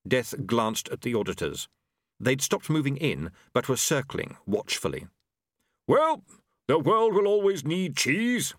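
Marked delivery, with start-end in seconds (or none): 5.9-8.5 high, loud, desperate heartiness; desperate War. A narrator's reading. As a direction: push out desperate cheer at high pitch. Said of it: "said Waugh desperately".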